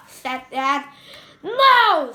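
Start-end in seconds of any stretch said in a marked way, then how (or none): 1.4-2.1 high loud scream of refusal; Henry screams no at Dad, loud and high. A narrator's reading. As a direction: shriek it like a furious child. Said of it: "screamed Henry".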